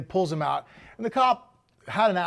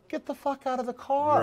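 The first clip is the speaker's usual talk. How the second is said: higher, harsher repeat of the cop's order; barked cop order; 7 semitones higher than usual. Retold or imitated. Retelling the officer ordering the kid out, higher barked command. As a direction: bark it like the cop at the car window. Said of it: "he's cussing".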